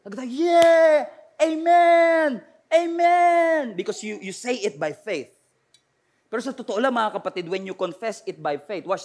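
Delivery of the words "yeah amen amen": loud, high cheering amen; excited amen. Shown as a demonstration. Believers answering God will provide, loud cheering amen. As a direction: celebrate the declaration. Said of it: "Kapag sinabi, God will provide".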